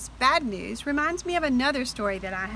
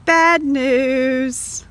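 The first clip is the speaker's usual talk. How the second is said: louder, pitched-up wail of dismay; upset; 2 semitones higher, 6 dB louder than usual. Shown as a demonstration. Teacher reading to children, loud upset groan. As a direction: complain it loudly.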